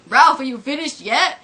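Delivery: put-on principal voice; Skinner. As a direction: call impatiently to the boy. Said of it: "And Skinner's like".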